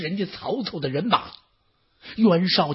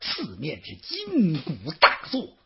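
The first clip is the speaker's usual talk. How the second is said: ordinary delivery, nothing marked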